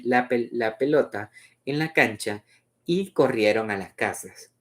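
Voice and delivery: measured, melodic read-aloud; story narration. A narrator's reading. Reader presenting Luz's memory of midday, story narration.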